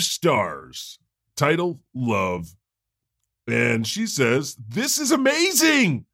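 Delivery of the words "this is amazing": gushing review. Pretend. Reads review with mock enthusiasm.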